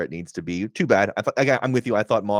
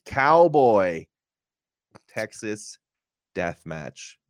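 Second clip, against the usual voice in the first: slithery Mox; much slower than usual. Retold or imitated. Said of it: "slithers around and says".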